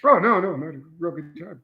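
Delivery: sarcastic reassurance. Real, not acted. Taster answering "don't look like you're enjoying it", sarcastic. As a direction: insist on enjoyment while plainly suffering.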